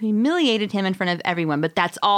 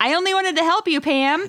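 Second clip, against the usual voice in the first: put-on screaming, higher pitch; 9 semitones higher than usual. Narrating an arrest where the character screams while dragged away: imitating someone screaming. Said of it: "he is screaming".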